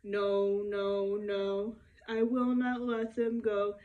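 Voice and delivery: a storyteller's gruff, obstinate Pharaoh, lightly voiced; stubborn Pharaoh. Pharaoh refusing to free people.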